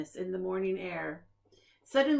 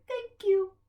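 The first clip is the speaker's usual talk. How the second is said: monster voice; 10 semitones higher, 5 dB louder than usual. A narrator's reading. Monster's voice from inside bakery.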